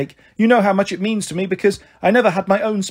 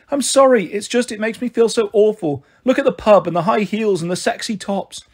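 higher-pitched, upset apology; acted touch of crying in a raised voice; tearful; 4 semitones higher than usual. Mother apologising over the birthday card, tearful. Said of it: "then she started crying again".

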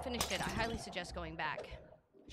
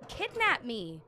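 much higher, louder mock outrage; indignant rant; 9 semitones higher, 7 dB louder than usual. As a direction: rant about being catnapped. Indignant rant after attack.

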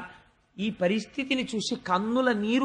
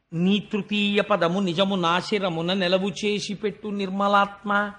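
poem recitation. Acted. Storyteller opening the Vamana episode, chanting the verse. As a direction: intone the padyam like a temple reciter.

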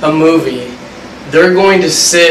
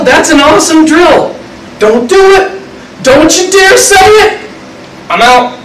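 animated channel surfing; 6 semitones higher than usual. Pretend. Acting out channel surfing videos.

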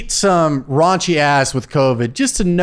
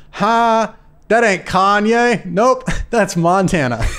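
French Montana line; slower than usual. Retold or imitated. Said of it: "My favorite French Montana line ever is he goes".

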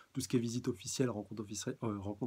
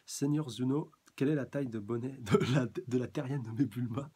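question grivoise; 2 semitones higher, 6 dB louder than usual. Acted. Jaco pose une question grivoise.

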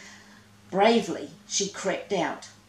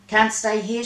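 urgent cry, a bit louder; cried out; 3 semitones higher, 6 dB louder than usual. Acted. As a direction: hurry them away in alarm. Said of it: "she cried".

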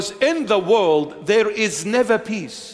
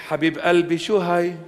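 put-on Lebanese accent; 3 semitones lower, faster than usual. Preacher asks the club-goer what is going on, Lebanese accent. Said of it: "In the Lebanese accent".

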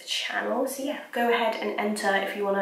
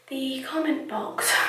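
breathless, trailing whisper; out of breath; 4 semitones higher, 3 dB quieter than usual. Real, not acted. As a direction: run out of breath on the words. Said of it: "I'm out of breath".

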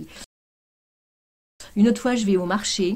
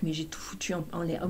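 sheepish whisper; 10 dB quieter than usual. Retold or imitated. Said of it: "Il me dit".

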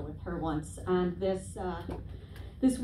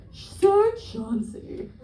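slow, drawn-out haughty lady voice; a snooty dog owner bragging, slow; snooty dog mom; slower than usual. Retold or imitated. Dog owner bragging about DNA results, slow and haughty. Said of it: "She was like".

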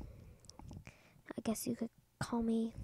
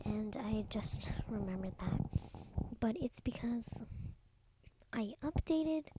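whispering; 3 dB louder than usual. Real, not acted. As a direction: whisper it all close to the mic. Whispered Minecraft vlog throughout.

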